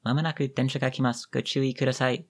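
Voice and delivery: high, even station announcer robot voice; like an automated train platform announcement; robotic announcement voice. Retold or imitated. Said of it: "a robotic voice goes".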